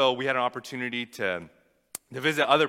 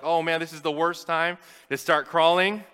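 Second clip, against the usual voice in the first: put-on higher, louder, rising alarm as the baby moves; panicked alarm; 7 semitones higher, 7 dB louder than usual. Father watching his infant on the camera, alarmed and loud. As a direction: yelp it out like the baby's about to fall.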